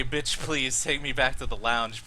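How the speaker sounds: mild mumbled version; mumbling. Acted. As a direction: slur it weakly, barely coherent. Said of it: "you literally are just mumbling".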